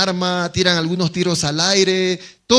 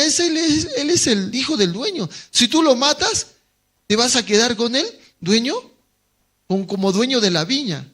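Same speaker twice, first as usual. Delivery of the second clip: higher, insistent whispering-devil pitch; tempting inner voice; 5 semitones higher than usual. Retold or imitated. Evil thought tempting the tenant, higher and insistent. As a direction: coax him toward the killing. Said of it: "otro pensamiento le dice".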